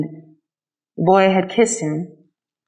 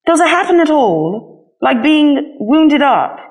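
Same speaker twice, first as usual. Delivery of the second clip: a hint of a higher, slow, anxious little rabbit; lightly voiced rabbit; 7 semitones higher, slower than usual. A narrator's reading. Rabbit asks the skin horse how it happens, lightly voiced. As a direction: ask it hesitantly, a bit worried. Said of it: "he asked".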